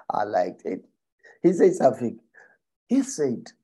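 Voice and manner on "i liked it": unvoiced whispered aside, lower. Real, not acted. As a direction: whisper it to yourself, pleased. Aside after laughing.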